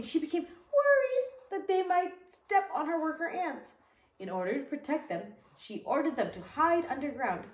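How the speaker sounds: put-on gentle storybook read-aloud for young listeners; teacher reading the story to the kids, in a storybook voice; reading to children. Once-upon-a-time storytelling.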